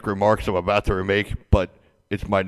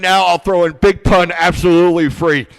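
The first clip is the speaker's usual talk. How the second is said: infomercial pitch; 5 semitones higher, 5 dB louder than usual. Pretend. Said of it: "if you act right now".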